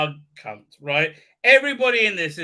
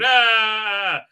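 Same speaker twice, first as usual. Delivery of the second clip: raised, loud drawn-out "ah"; mock hammering yell; 4 semitones higher, 7 dB louder than usual. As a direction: let out a comic effort cry. Imitates yell while hammering.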